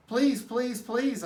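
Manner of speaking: high, eager hamster squeaks; squeaked pleading. A narrator's reading. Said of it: "I squeaked".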